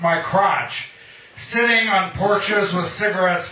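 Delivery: measured, rhythmic poem recital; poetry reading. Acted. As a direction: read it like a poet at an open mic. Reads his own poem aloud.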